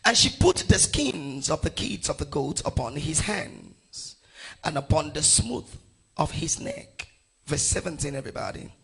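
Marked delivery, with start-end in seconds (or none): 0.0-7.1 emphatic, measured Bible reading; scripture reading. Acted. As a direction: proclaim the verse phrase by phrase. Reads scripture aloud to congregation.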